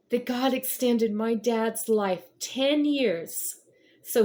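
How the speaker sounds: high, strained voice breaking with tears; pushing the words out through real crying; tearful telling of finding dad gone. Real, not acted. Telling of father's death.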